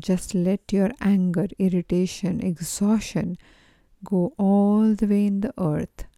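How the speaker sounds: measured meditation guide with pauses between instructions; even, unhurried guiding voice; guided meditation. Acted. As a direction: lead listeners gently through each breath and image.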